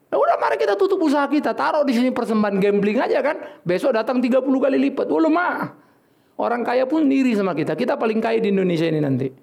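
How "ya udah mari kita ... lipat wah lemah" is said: laughing mockery. Parodies gambling on offerings.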